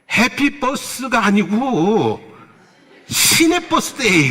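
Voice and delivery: lightly voiced grandma drawing out "시내 버스데이"; Gyeongsang grandma retort. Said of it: "그 소리를 듣고 하는 말이".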